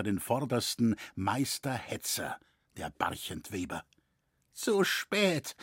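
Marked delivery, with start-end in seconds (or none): 4.6-5.6 stammered. A narrator's reading. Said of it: "lallte Leu".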